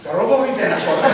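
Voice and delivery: laughing through the jibe; chuckle, then tease through the laugh. Retold or imitated. Boss teasing Yokouchi about his voice, laughing.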